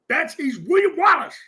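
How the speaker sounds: excited shout. Real, not acted. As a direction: proclaim it with fire. Hyping Prescott as Braveheart.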